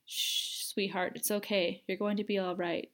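cooing. Acted. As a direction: soothe a panicking child in your arms. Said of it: "she cooed".

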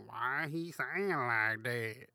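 slow, mock puzzled listener; a hint of a baffled listener, slowed; imitating a puzzled listener. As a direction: drag it out like a confused viewer. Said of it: "You're thinking".

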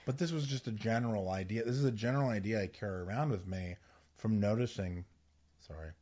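talking with gum in mouth; chewing gum. Real, not acted. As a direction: gum held in the mouth while speaking. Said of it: "Have you had gum in your mouth this entire time?".

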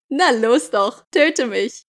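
ordinary delivery

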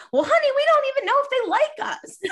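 high, loud sweet-lady voice with a laugh; sweet older lady. Retold or imitated. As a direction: coo it like a doting grandma, laughing. Host's mother voiced in a story.

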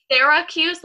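first syllable of Syracuse as "Sarah", open e. Shown as a demonstration. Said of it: "like Sarah".

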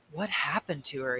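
nervous. Acted. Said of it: "he asked nervously".

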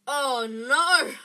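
loud, sinking alarm; dismayed cry. A narrator's reading. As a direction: cry out in horrified realization. Ron hears the scream with dread.

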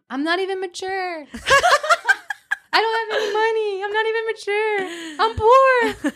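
high, laughing whiny despair; half-laugh through the complaint; mock panic. Quoting her own panic.

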